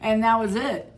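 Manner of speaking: giddy high outburst; excited. Real, not acted. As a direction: blurt it out in delight. Laughing, excited retelling.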